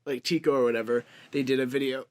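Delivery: talking through hiccups. Real, not acted. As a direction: speak while hiccuping. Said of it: "Oh my God, I'm hiccuping".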